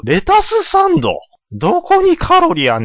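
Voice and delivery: high, loud incredulous echo; shocked disbelief. Acted. Stablemaster stunned by the apprentice's lettuce sandwich diet, high incredulous echo. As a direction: repeat it in sheer disbelief.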